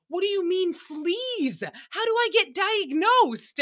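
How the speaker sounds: high-pitched mock panic; hammed-up alarm, voice shot way up; Shannon panicking. Friend told she might have fleas, mock panicking. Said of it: "we had Shannon panicking".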